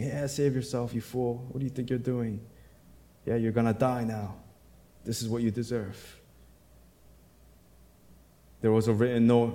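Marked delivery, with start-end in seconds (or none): 0.0-6.2 softer, a touch of sneering taunt; lightly voiced jeering crowd; teasing mockery. Pastor imitating the crowd teasing Jesus, mild mock sneer. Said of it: "It's like they're teasing".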